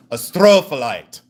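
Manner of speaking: booming mimicry of the gem-show man; mock yell, punching the second syllable; imitated yell. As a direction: belt out the STRO like he does. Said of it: "Do you have to yell it".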